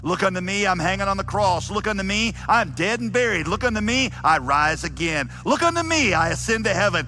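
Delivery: high, loud cries that surge and drop; Methodist preacher's shout. Acted. Primitive Methodist preaching Christ's sufferings to sinners, fervent shout. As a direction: shout each appeal like a fervent revival preacher. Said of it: "shouting like only a primitive Methodist could".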